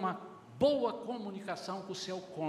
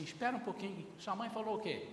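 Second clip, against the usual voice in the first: calm father; 5 dB quieter than usual. Shown as a demonstration. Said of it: "aprenda a dizer assim".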